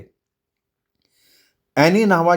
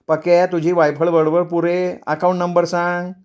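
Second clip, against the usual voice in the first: slightly higher, curt wife; impatient wife; 4 semitones higher than usual. Acted. Wife orders husband to give the number, impatient. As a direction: cut his chatter short.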